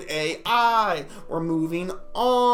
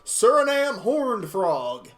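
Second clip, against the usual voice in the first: a fancy frog playing British; mock British accent; 3 semitones lower, slower than usual. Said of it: "he looks British".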